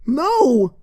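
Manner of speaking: a high, desperate cry of denial; desperate plea. Acted. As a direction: beg the crowd to believe her. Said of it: "pleading desperately with the crowd".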